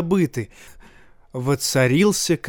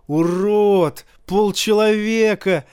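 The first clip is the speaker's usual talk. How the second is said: jeering shout; 6 semitones higher, slower than usual. A narrator's reading. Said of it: "Тириону кричали".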